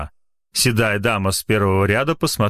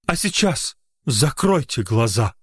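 eerie voice from beyond; hushed, ghostly command; otherworldly voice; 3 semitones higher than usual. Acted. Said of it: "странным потусторонним голосом". (потусторонний голос)

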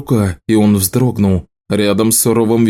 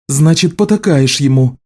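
curt retort; 6 semitones higher than usual. A narrator's reading. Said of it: "отрезала Элиса".

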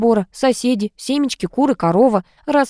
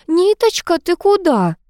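flustered; 9 semitones higher than usual. A narrator's reading. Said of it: "растерялась Энн".

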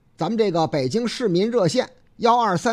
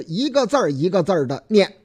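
word-by-word reading; 3 dB louder than usual. Shown as a demonstration.

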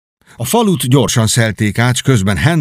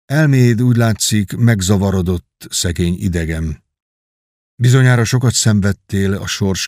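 gentle. Acted. Hugh gently addressing the stranger, a touch of pity. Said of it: "szelíden így szólt".

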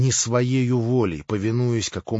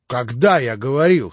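потерянно; 3 semitones higher, 8 dB louder than usual. A narrator's reading. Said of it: "совсем потерянно пролепетал Иван".

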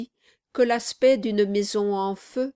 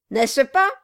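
loud, higher insistent jab; taunting shout; 5 semitones higher, 9 dB louder than usual. Acted. Quilp shouts it at the battered figurehead, taunting. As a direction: hammer the question home. Repeated taunt while striking.

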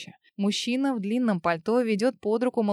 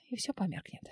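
unvoiced, softer whisper; 2 semitones lower, 10 dB quieter than usual. A narrator's reading. Woman facing death, whispering to herself. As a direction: let the words fade into a whisper.

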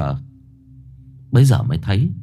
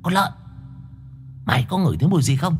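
hushed and secretive, a touch higher; hushed mysterious whisper-voice; 3 semitones higher, 6 dB quieter, much faster than usual. A narrator's reading. Boy whispering down from the top bunk, hushed and mysterious. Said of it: "nói xuống bằng cái thứ âm thanh khe khẽ".

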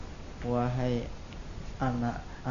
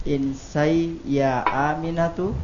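"Insai ya Aminatu" rising at the end; question intonation. Real, not acted. Student slipping back while reading alone, question intonation. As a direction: lift "Aminatu" as if asking. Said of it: "kembali ke intonasi pertanyaan".

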